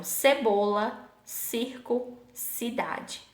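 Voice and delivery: teacher listing "cebola, circo, cidade" word by word; soft C recap. Shown as a demonstration. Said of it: "tem o som de S".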